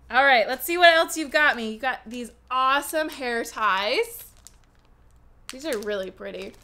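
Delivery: ordinary talk, nothing marked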